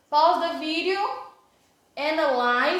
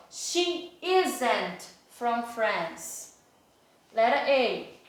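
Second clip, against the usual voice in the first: slow clear reading; much slower than usual. Shown as a demonstration. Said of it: "reading the exercise sentence aloud".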